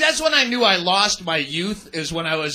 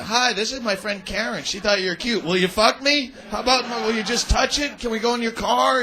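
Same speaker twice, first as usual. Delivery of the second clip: panicked desperate plea; 3 semitones higher than usual. Retold or imitated. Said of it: "you panic".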